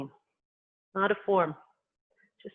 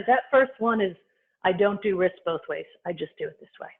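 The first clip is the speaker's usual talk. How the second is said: talking through a tickle in the throat; choking. Real, not acted. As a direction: speak while half choking. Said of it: "I'm sorry, I'm choking".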